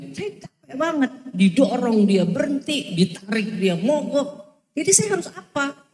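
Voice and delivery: worked-up outburst, pitch jumping on the question; fiery rant. Retold or imitated. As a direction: reenact the fiery complaint to the counselor. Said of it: "Saya kan ngomong berapi-api begitu ya".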